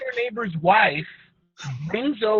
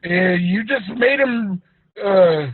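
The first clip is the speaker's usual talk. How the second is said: louder, higher, mock-praising dad; smug dad voice; 3 semitones higher, 4 dB louder than usual. Dad blames his son for the slaughtered goat, loud and mock-praising. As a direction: play the dad who is falsely sweet. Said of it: "And he's all".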